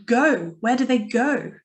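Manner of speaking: weight on "go"; "go" set apart and stressed. Shown as a demonstration. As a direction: lean on the word "go" each time. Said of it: "Or maybe go".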